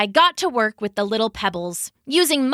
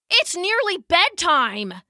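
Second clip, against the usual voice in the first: mild shout; 8 semitones higher than usual. Acted. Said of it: "he shouted".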